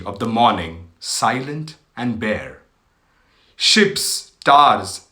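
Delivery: slow, solemn verse reading with long pauses; poem recital. Acted. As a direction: recite the sonnet in measured phrases, sinking at line ends. Reads Wordsworth poem aloud. (read aloud as a poem, slowly and deliberately)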